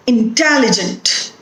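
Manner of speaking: "Intelligent" stressed on TEL; stress on second syllable. Shown as a demonstration. Teacher giving an example word, "Intelligent" stressed on TEL. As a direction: lift TEL in "Intelligent", then fall away. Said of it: "The stress is on te".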